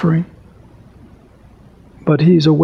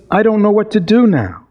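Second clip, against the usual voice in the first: mock laughing cry; 6 semitones higher than usual. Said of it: "he cried, laughing, crying the same breath".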